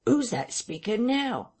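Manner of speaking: high-pitched villager's question; curious eavesdropper. A narrator's reading. Henfrey asks Hall at the parlour door, high and curious. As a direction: ask it high, with puzzled curiosity.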